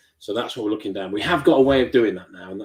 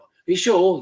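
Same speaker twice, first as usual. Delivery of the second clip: incredulous Matt; 8 semitones higher, 5 dB louder than usual. Retold or imitated. Matt asking in disbelief.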